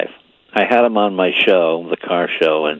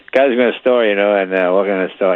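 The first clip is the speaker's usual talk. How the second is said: halting, odd mock Norm patter; weird Norm talk. Retelling Norm's joke in his weird talking. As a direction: ape Norm's weird stop-start delivery. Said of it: "he would just do that weird talking".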